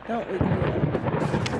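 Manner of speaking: slow whisper of the note's words; whispered reading. Real, not acted. Player reads a creepy note to viewers, slow whisper. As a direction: whisper the note like a sleepy warning.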